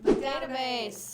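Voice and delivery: slow answer. Real, not acted. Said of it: "How is he gonna answer you?".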